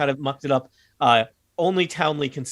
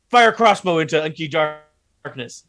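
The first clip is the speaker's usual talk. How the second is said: ogre bark; 3 semitones higher, 4 dB louder, slower than usual. Acted. DM voices ogre ordering.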